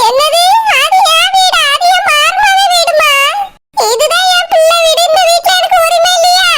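tearful, hurt protest; crying. Acted. Mother-in-law claiming her right to her son's house, crying. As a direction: protest through tears. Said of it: "இப்படி எல்லாம் அழுதுட்டு நிக்காதீங்க".

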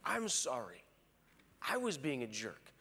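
mild contrite answer; a hint of the other person conceding; returned apology. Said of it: "they'll say".

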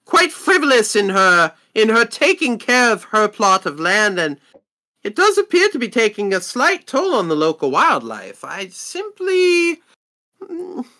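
lightly flustered shopkeeper, halting; a touch of defensive stammering; evasive merchant. Acted. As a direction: search for excuses in a lightly put-on merchant voice. Merchant justifies wanting woman gone.

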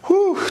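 high whistled exhale; relieved whew. Retold or imitated. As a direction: let out a "whew" before facing it. Relieved breath before going in.

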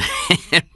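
short, high acted chuckle; brief laugh in character. A narrator's reading. Blake laughs off the joke.

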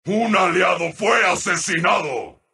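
low, measured announcement; somber announcer call. Acted. Announcer reporting an ally slain, somberly. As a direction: break the news low and grave.

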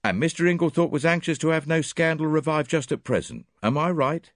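put-on French accent, smug and precise; Poirot presenting his witnesses in a French accent. A narrator's reading. Voices Poirot.

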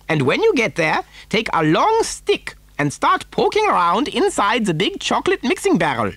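high, excitable eccentric; Mister Wonka. A narrator's reading. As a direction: rattle off orders in a swooping high voice. Wonka gives urgent instructions.

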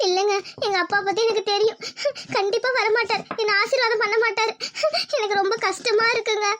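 halting, tearful words with pauses; understated weeping that breaks through at the end; crying. Acted. Woman telling her partner her father will never bless her, crying. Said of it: "நீ அழுகிறத நிறுத்துடி".

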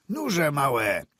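high, loud, merry call to the horses; cheerful call. A narrator's reading. Driver cheerfully calling to his horses near home. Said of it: "zawołał wesoło na konie".

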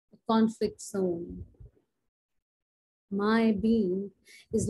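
performance poetry, measured phrases with weighted pauses; spoken-word poem recital. Acted. Poet performing her anti-war poem to an audience, spoken-word recital. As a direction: recite it like an anti-war poem on stage, emphatic then hushed at line ends.

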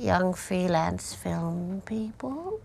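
ominous threat. Acted. Medium threatening the film crew.

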